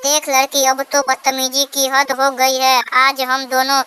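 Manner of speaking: very high-pitched quarrelling mother-in-law; threatening mother-in-law. Acted. Mother-in-law warns daughter-in-law to speak politely, threatening. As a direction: threaten her in a high put-on voice.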